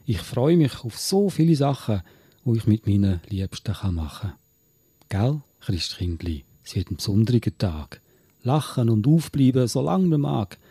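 Swiss German poem, read in measured phrases; Gedichtvortrag. Acted. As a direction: recite a Christmas verse line by line. (Gedicht auf Schweizerdeutsch vortragen)

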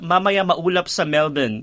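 Filipino sentence with Australian Melbourne, slowly; slow Tagalog line ending in Australian Melbourne; mixed Australian accent. Shown as a demonstration. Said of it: "tapos i-accent mo ng Australian".

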